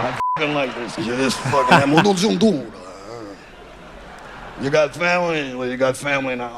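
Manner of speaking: hint of a godfather taking him in; Mafia accent. Mob boss tells the kid he's family now, Mafia accent. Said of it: "his accent is killing me".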